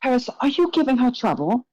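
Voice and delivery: high, gushing showman's voice; flamboyant host. Acted. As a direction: greet the guests like a theatrical charmer. Gallagher teasing Paris.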